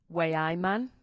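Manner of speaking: understated Geordie model phrase; Geordie accent. Shown as a demonstration. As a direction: model the Newcastle accent lightly for a learner. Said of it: "give the Geordie accent a go".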